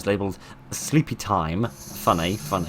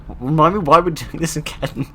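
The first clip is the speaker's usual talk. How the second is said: nervous squeak; 8 semitones higher, 6 dB louder than usual. Acted. Nervous companion line.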